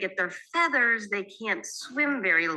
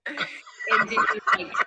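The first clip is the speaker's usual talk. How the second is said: laughing; 13 semitones higher than usual. Real, not acted.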